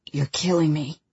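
through clenched teeth; strained through gritted teeth. Acted. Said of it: "he says between gritted teeth".

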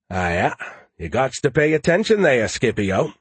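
put-on thick, folksy Maine accent. Joe needles Skippy back, put-on Maine accent.

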